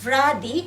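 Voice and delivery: ভ্রাদি said loudly with an opening v, between ব and ভ. Shown as a demonstration. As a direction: punch out ভ্রাদি, first sound midway between b and bh. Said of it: "এটা ব এবং ভয়ের মাঝামাঝি একটা sound".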